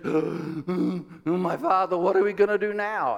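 mildly acted alarm after a gasp; a touch of mock dread; terror-struck servant. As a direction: imitate a servant in a panic. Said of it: "terror-struck, and he says".

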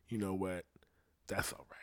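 gentle acceptance. Acted. Acted accepting someone's faults.

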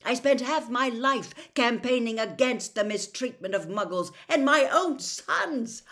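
loud, outraged lecture; angry, high and loud; shouted tirade. A narrator's reading. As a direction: rant at your sons at full volume. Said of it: "Mister Weasley shouted".

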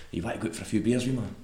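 lightly imitated Jamaican-Trinidadian accent. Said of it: "the Jamaican Trinidadian accent".

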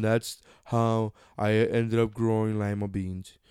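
boring uncle. Retold or imitated. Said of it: "boring uncle at the party".

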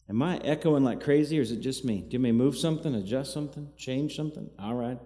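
echoing room sound; cave echo. Real, not acted. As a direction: voice bouncing in a cave. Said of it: "Sound like I'm in a cave".

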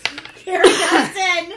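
loud, laughing exclamation. Real, not acted. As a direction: cheer it out through laughter. Excited laughing at a roll.

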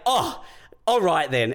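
high mock-offended huff; imitated anger. Annoyed lady before storming off, mock offended. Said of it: "man, she was so mad".

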